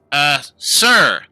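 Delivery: high, apologetic halfling voice; a small halfling pleading with the guards; nervous little halfling. Acted. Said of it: "the little halfling says".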